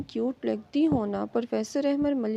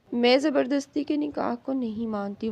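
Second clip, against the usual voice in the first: plain reading voice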